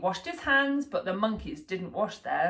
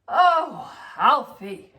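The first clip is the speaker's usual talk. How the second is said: mum sighing; 2 semitones higher, 6 dB louder, much slower than usual. A narrator's reading. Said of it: "sighed Mum".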